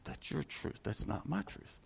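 mocking quote. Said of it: "They said".

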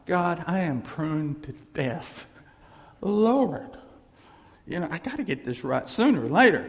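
half-joking exhausted prayer; weary prayer. Retold or imitated. Pastor acting out his own tired prayer, mock pleading. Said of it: "I do this prayer".

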